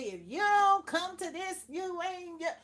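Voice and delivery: loud, high mock scolding; mock preachy threat. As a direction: holler it like someone beating folks over the head. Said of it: "and I don't say".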